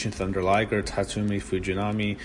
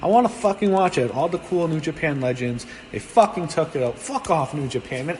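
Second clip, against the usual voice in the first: angry rant; 4 semitones higher than usual. Real, not acted. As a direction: vent about it, really mad. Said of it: "I'm so mad".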